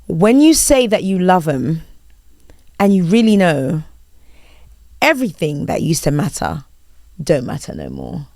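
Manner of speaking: spoken lyrics with long pauses; reading out lyrics. Shown as a demonstration. Host quizzing guest, song read as prose. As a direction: recite line by line, no tune, dropping at the end. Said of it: "the way I read it".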